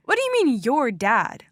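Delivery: gasping; gasped question. Acted. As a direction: catch your breath in surprise. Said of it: "Linda gasped".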